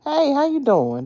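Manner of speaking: high, bright singsong hello; cheery greeting. Retold or imitated. Showing how she greets coworkers, high and cheery. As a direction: greet everyone like sunshine. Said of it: "'Cause I'm always".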